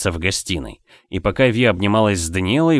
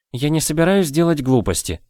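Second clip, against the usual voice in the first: flaring up; 7 semitones higher than usual. A narrator's reading. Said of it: "взвилась Виола".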